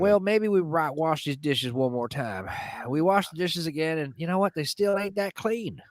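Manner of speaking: uncle voice stretching out line ends; Uncle Dickie. Retold or imitated. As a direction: tell it as a folksy uncle's yarn. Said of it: "joke my Uncle Dickie told me".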